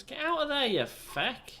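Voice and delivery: high loud exasperated shout; angry yell. Real, not acted. Player cursing at a chicken, high loud shout. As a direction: bark the chicken away in frustration.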